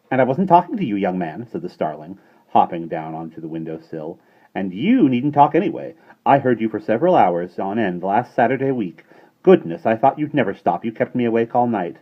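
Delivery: shrill starling voice. A narrator's reading. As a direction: squawk it like a cheeky starling. Starling character voice.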